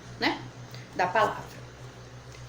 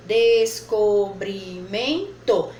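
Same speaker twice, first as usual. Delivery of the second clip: "descobrimento" dragged out slowly, louder; slow sounding out; 5 dB louder, much slower than usual. Shown as a demonstration. Teacher sounding out the word for pupils. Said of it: "quatro possibilidades".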